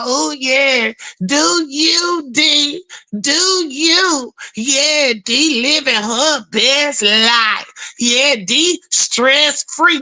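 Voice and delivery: drawn-out, teasing cheerleader voice; egging her on slowly, mockingly; mock hype friends. Friends mockingly hyping her up, drawn-out.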